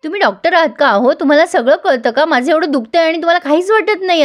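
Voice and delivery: indignant retold scolding, no real shout; mock yelling. Sumi scolding Nikhil over her ignored back pain, mock yelling. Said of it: "आता जोरजोरात सुमी ओरडते".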